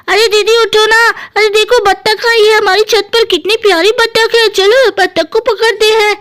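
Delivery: a touch of an eager little brother; lightly voiced Guddu. Guddu wakes his sister to see the duck, mildly eager. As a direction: lightly urge a sleeping sister up.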